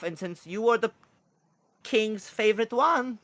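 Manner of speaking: high bird voice, a little loud; urgent kookaburra. Acted. Messenger calling the king's favorite cleric, high kookaburra voice. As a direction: draw out the dire news up high.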